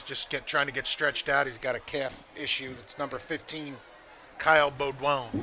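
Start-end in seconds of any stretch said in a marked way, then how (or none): 4.4-5.3 put-on player's name said with a French accent. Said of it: "That was my French accent".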